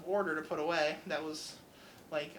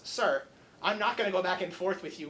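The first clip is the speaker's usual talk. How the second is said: louder, shutting the customer down; mildly louder stern warning; firm raised voice; 4 dB louder than usual. Retold or imitated. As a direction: raise it to end the argument. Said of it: "So Jeff gets louder".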